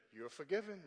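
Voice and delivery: flat, cold forgiveness; icy church mother granting forgiveness; real cold. Retold or imitated. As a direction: say it without any warmth. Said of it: "real cold".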